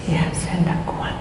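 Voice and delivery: hushed, breathy confession of defeat; whispered despair. Retold or imitated. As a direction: whisper it like she has no strength left. Poor mother admits she can't cope. (ibu berbisik putus asa)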